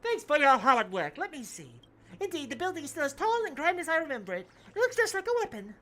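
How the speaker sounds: muffled robot voice through cupped hand; hand over mouth. Acted. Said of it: "put my hand over my mouth".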